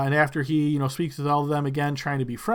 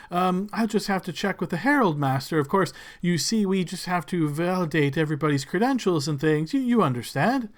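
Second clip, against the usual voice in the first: fawning servant; 2 semitones higher than usual. Acted. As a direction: gush over the lord's name. Servant explains customs.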